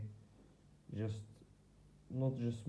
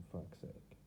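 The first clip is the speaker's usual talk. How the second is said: whispered curse under the breath, much softer; muttered curse; 4 semitones lower, 13 dB quieter than usual. Real, not acted. Frustrated man cursing to himself in a whisper. Cursing quietly at his own struggle.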